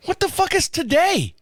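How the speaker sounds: exasperated outburst at the phone guy; yelling. Retold or imitated. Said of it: "I'm yelling at this guy".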